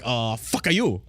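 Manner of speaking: slow, put-on scoffing voice; China's dismissive retort. China dismissing Prince William, slow scoffing put-on voice. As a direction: brush off the prince like he's nobody. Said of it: "'Cause China be like".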